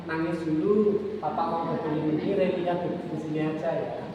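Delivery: gentle parent demo. Shown as a demonstration. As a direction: let the child cry, gently. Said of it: "Kalau pengen mau nangis".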